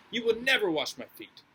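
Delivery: NEVER hit hard and loud in "You will never wash my feet"; emphatic refusal. Acted. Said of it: "he's emphatic in his ignorance and his rejection".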